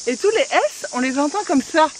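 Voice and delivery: « tous les S » dits avec un zézaiement voulu; deliberate lisp. Shown as a demonstration. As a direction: zozote exprès sur « les S ». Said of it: "Là, j'ai fait exprès". (zézaiement volontaire)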